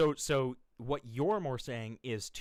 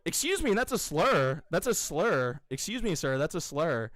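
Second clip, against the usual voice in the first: mock outrage; 5 semitones higher, 4 dB louder than usual. Mock offense at being insulted.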